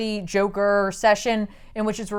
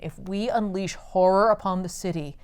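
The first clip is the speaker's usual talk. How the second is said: softer, lower, lightly acted scheming; measured villain speech; 4 semitones lower, 8 dB quieter than usual. Villain explains his plan to doubtful followers, quietly measured.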